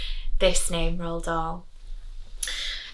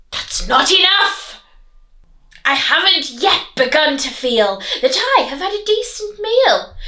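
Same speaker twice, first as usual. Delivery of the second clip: hammed-up greedy wolf wail; 4 semitones higher than usual. Wolf still hungry after eating grandma, mock wail. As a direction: moan for more food like a spoilt wolf. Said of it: "Wolfie wailed".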